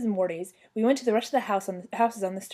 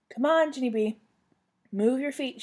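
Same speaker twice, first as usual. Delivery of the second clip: higher-pitched parent's prodding; urging; 5 semitones higher than usual. A narrator's reading. Mother pulling her reluctant child, urging. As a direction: hurry a dawdling child along.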